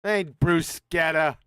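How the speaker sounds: Ain't bruschetta echoed back slowly with a hard k; mock correction. Shown as a demonstration. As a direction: push back, saying bruschetta with the k himself. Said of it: "It's bruschetta".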